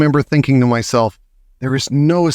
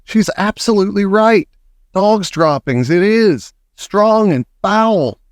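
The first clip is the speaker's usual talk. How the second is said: agreeing witch; 7 semitones higher than usual. A narrator's reading.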